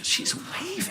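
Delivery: wheezing the words out through a laugh; laughing echo. Retold or imitated. Repeating the nurse while cracking up. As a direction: choke on the giggle as you repeat it.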